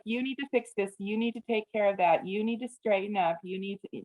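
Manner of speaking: lightly imitated nagging mother; mom voice. Parent piling demands on a teenager, lightly voiced mom voice. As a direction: rattle off a list of mock parental orders. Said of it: "Do you hear the mom voice?".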